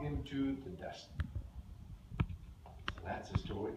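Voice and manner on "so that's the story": whisper. Real, not acted. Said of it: "closing whisper".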